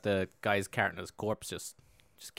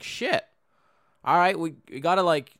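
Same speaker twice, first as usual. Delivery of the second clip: high, louder acted dismay; mock alarm, rallying himself; pitched-up storyteller's "oh no"; dismayed reaction; 6 semitones higher, 5 dB louder than usual. Voicing saint's reaction.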